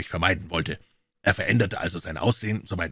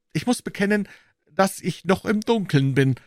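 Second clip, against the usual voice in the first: Watson's voice; 12 semitones higher, 3 dB louder than usual. A narrator's reading. Watson admits confusion.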